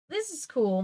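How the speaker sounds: put-on bright eager kid; enthusiastic. A narrator's reading. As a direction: say it with real enthusiasm. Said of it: "Michael said enthusiastically".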